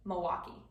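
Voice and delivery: Milwaukee with the L dropped, said like "Mwaukee"; Wisconsin Milwaukee. Shown as a demonstration. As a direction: swallow the L in Milwaukee. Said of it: "you didn't say, pronounce that L".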